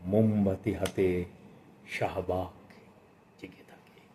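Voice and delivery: slow recitation fading to a hush at the end; poem recitation. Acted. Reviewer closing with two tiny poems, slow and fading. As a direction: let each line hang, then fade out.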